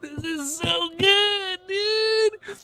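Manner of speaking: very high, slow, stretched-out cry of joy; ecstatic cry. Real, not acted. Streamer crying out in joy at the reveal. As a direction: wail it out overjoyed.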